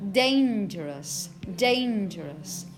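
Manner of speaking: "dangerous" slowly, falling to a weak "us"; slow model "dangerous", stressed start, reduced ending; schwa ending. Shown as a demonstration. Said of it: "it's going to be us".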